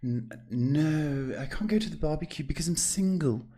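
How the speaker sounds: mock reluctant brother, lightly voiced; lightly mimicked refusal. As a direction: mildly imitate a shy brother begging off. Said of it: "And he goes".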